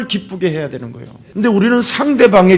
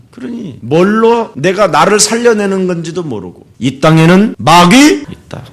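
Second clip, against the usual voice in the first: ordinary talk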